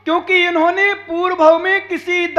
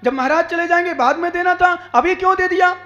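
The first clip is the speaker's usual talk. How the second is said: insistent, scolding sermon delivery; reproachful preaching; 3 semitones higher than usual. Acted. Preacher voicing objections to someone giving alms, reproachful. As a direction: preach it as a string of challenges.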